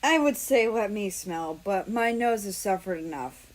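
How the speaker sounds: flat monotone, dry delivery. Acted. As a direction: say it dead flat. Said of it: "in his normal monotone voice".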